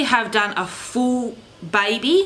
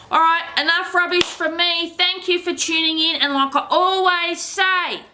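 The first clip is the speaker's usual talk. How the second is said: vlog sign-off; 8 semitones higher than usual. Acted. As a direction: stretch out the subscribe plea, pitched up. Signs off to viewers.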